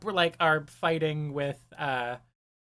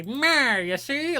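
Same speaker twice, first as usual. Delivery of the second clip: put-on higher-pitched old-timey gangster voice; louder, hammy vintage gangster bit; 7 semitones higher, 3 dB louder, much slower than usual. Shown as a demonstration. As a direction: growl a "see?" like a movie mobster. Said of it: "like, old-timey gangster voice".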